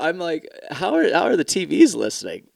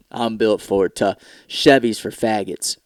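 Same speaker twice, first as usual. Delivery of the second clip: mock truck ad voice; 4 semitones lower than usual. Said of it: "watched a T V commercial and went".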